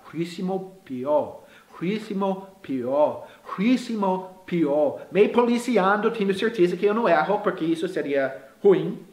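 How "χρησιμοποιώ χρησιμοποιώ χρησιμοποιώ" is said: very slow, careful repetitions; devagar. Shown as a demonstration. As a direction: say χρησιμοποιώ slowly, drawing out each part. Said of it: "Vou devagar". (bem devagar, com cuidado)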